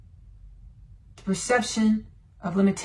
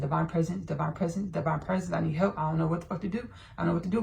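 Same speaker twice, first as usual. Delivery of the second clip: retold plea; 4 semitones lower, 7 dB quieter, faster than usual. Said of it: "I was just calling out for divine presence".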